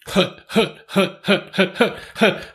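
rhythmic football snap count; quarterback calling cadence. Pretend. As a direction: call out hut like a quarterback at the line. Jabba the Hutt pun, cadence.

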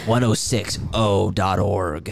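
slow radio announcer. Pretend. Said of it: "what's your radio station?".

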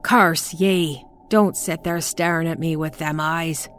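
put-on mad old woman spitting curses; frenzied cursing. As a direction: curse at her, half crazed. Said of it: "the mad frenzy of her voice".

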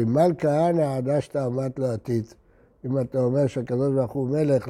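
low, subdued retelling of a weeping rabbi; retold tearful reply. Weeping rabbi explains his tears to those asking, subdued. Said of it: "אז הוא התחיל לבכות".

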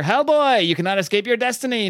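hammed-up monster voice; booming doom voice. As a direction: announce his doom from the darkness. A singer's voice booms.

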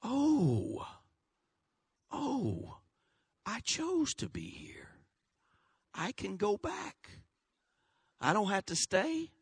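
breathless whisper of a discouraged believer; mock despairing whisper; whispered self-pity. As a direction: whisper it like someone giving up. Voicing a self-pitying believer.

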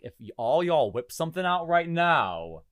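slow, drawn-out leering inner voice; inner creep. Pretend. His inner thoughts about hot riders, slow leering. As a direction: drawl it like a secret creep. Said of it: "inside I'm like".

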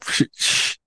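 soft unvoiced shushing; whispered shush. Real, not acted. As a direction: hush him quietly. Shushing co-host mid-read.

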